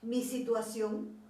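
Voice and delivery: loud, pleading prayer to God; fervent plea. Retold or imitated. She begs the Lord to change her heart, pleading loudly. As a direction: cry out each cambia as a plea. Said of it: "Le empecé a decir".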